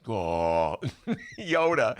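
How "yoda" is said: high, loud little Yoda call; quick hammed-up Yoda voice; Yoda imitation. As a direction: squeak the name out like Yoda. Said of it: "and that's my Yoda imitation".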